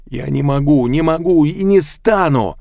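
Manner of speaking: loud, high emotional outburst; desperate shouted refusal. A narrator's reading. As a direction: let the feelings burst out. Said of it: "из него выплеснулись слова и чувства".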